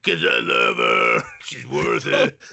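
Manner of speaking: slow, tearful cartoon tough-guy bellow; hammed-up anguished declaration, dragging every word; Assy McGee. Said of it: "devolved into the Assy McGee".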